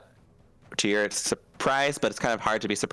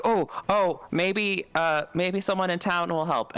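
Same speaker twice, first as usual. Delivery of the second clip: put-on eager kids voice; 7 semitones higher than usual. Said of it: "They're like".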